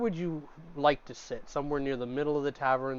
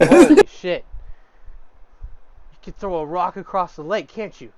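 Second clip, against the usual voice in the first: awed; 4 semitones higher, 11 dB louder than usual. Acted. Server awed by big Fenrir.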